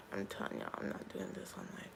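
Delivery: dropped low and soft, near a whisper; soft, choked repeat under the breath; hushed tearful. Real, not acted. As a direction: murmur it to yourself through tears. Refusing to go on, upset.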